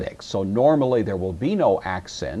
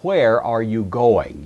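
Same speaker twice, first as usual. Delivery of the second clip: slow, louder demo of a question; question example; 6 dB louder, slower than usual. Shown as a demonstration. Teacher reading out a sample question, slow and emphatic. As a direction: read the example question slowly and clearly. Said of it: "used in interrogative statements".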